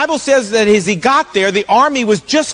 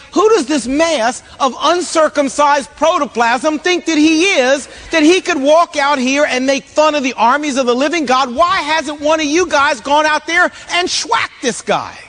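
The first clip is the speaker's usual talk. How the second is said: higher-pitched, mildly outraged rant; mock indignation; 4 semitones higher than usual. David mad at soldiers over Goliath's taunts, mock indignation. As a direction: build a hammed-up tirade against the bully. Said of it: "He was mad. He was like".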